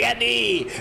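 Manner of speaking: high mock call; Belfast catchphrase. Shown as a demonstration. Streamer showing how locals greet each other, high mock call. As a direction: pitch it up as a comic catchphrase.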